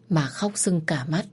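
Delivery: usual speaking voice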